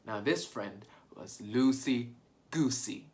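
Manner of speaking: ordinary delivery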